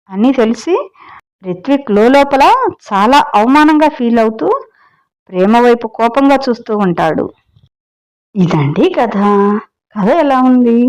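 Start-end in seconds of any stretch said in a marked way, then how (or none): 0.1-7.3 lively storyteller reading, a little higher; story narration. A narrator's reading. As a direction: tell the tale to your listeners, lightly dramatic. Reads the story aloud. (కథ చెప్పే స్వరం)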